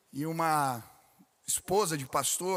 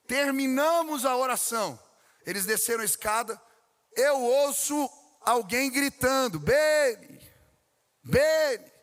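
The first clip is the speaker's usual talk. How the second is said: louder and higher, rising into a call; building excited shout; 7 semitones higher, 7 dB louder than usual. Acted. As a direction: call Beni across the building, loud and high. Calling out the son's name. (pastor recounts the boy shouting for Beni, excited, loud call)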